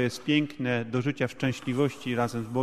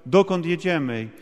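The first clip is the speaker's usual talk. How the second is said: mildly raised, anxious questions; retold fearful cry; 3 semitones higher, 3 dB louder than usual. Interpreter retelling the scared passenger's cries, mildly alarmed. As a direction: lightly act a frightened passenger's cry. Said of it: "jeszcze mocniej i intensywniej krzyczał".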